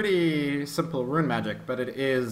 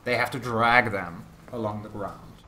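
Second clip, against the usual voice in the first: measured storytelling with dramatic pauses; game master narration; 2 semitones lower than usual. Acted. Game master describes the necromancer and his army, suspenseful narration. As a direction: lay out the menace phrase by phrase.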